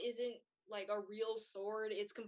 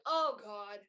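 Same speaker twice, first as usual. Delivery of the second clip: panicked plea. Acted. Rubius panics and begs the players for help. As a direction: beg the stranger for help, flustered. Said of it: "He's like".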